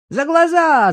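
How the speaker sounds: put-on high, loud boyish yell; boy's shout. Son answers for his mother, shouting eagerly. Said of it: "закричал Мишка".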